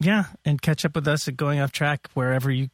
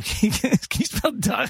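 punchline retried higher; 8 semitones higher than usual. Shown as a demonstration.

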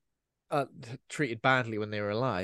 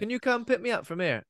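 higher, lightly whiny ask; mock whiny plea; 9 semitones higher than usual. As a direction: beg for a lift, hammed up. Mock detective whining about petrol.

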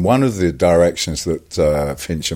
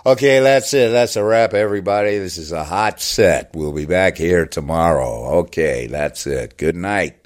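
David Fincher; 3 semitones higher than usual. Acted. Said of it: "he was getting more and more, you know, agitated".

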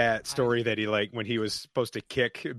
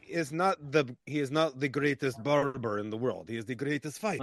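soft, lightly voiced solemn fighter; understated mock-serious fighter voice; Boyka; 5 dB quieter than usual. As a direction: intone it like a proud action hero. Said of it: "maybe Boyka".

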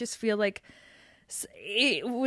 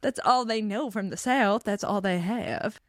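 put-on stretched-out Southern accent on the last words; mock Southern accent. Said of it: "always a thing with Southern characters".

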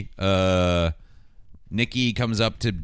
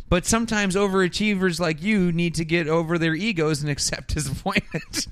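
higher-pitched condescending telling-off; mock lecture; 6 semitones higher than usual. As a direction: lecture an overachiever in a raised voice. Teacher lecturing student, retold.

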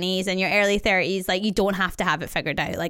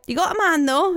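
prying gran; 8 semitones higher, 3 dB louder than usual. Retold or imitated. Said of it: "She's like".

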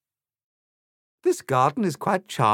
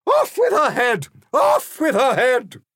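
shrieking high furious scream; 11 dB louder than usual. A narrator's reading. Furious Queen screams for Alice's beheading. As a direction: scream for the execution. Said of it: "responded by screaming".

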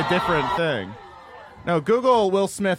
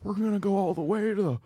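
mock earnest candidate, pitched up; Beto; 6 semitones higher than usual. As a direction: try really hard to swear, drawing it out. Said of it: "Beto did that and he was like".

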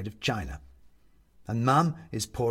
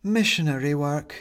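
a touch of mournful weight; 4 semitones higher, 4 dB louder than usual. Acted. Young woman explaining to Mum, mildly mournful. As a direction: say it with a light sigh. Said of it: "says the young woman mournfully".

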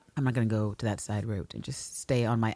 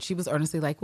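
usual speaking voice

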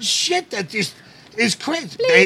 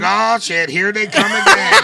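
puffer fish voice; 4 semitones higher, 5 dB louder than usual. Acted. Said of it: "puffer fish voice".

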